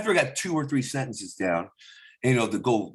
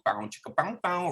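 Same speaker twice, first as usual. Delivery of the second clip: porno music sound; 5 semitones higher, 5 dB quieter than usual. Retold or imitated. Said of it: "it goes".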